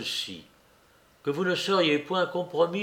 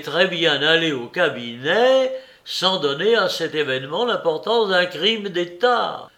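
cri agacé; 3 semitones higher, 3 dB louder than usual. Acted.

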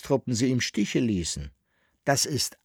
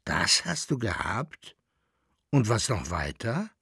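gedehnt; 4 dB quieter than usual. Acted. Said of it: "in gedehntem Ton".

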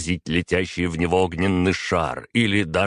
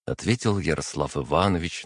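usual speaking voice

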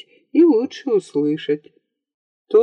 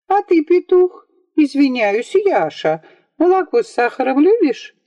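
put-on teasing girl; 8 semitones higher than usual.

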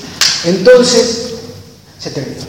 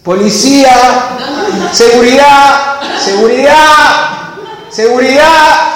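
mock yell; 4 semitones higher than usual. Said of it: "mi viejo empieza a gritar".

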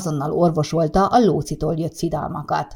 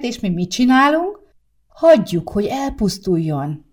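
lamenting; 4 semitones higher, 4 dB louder than usual. Acted. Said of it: "Sárika is jajongani kezdett".

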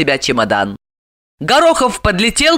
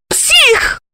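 much higher shouted insult; angry shout. A narrator's reading. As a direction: yell after him. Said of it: "зло крикнула ему вслед". (зло крикнув вслед)

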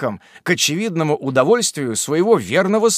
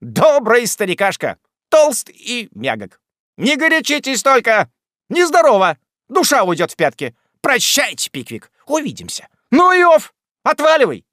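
high, loud jeering patter; high loud swaggering farewell; mocking farewell; 9 semitones higher, 5 dB louder than usual. A narrator's reading. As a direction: taunt the old man cheerily. Jingle mocks as he leaves.

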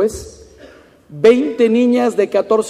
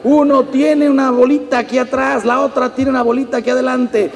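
animated listing; 5 semitones higher than usual. Real, not acted. Lively listing ailments.

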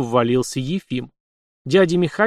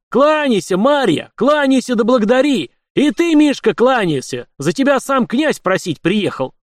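loud, high bellowed commands; yelling orders; 10 semitones higher, 5 dB louder than usual. A narrator's reading. Efim yells at Marya and Mishka to bow and thank him. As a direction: roar the orders so nobody dares disobey. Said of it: "что ж ты так орёшь".

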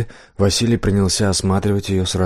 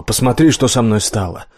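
cried out; 3 semitones higher than usual. Acted. Death crying out to the blacksmith, bitter outcry. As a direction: hurl the words out in anguish. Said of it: "Последние слова она выкрикнула".

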